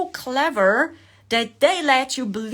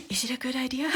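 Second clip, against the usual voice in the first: laughing through mock question; 8 dB quieter, much faster than usual.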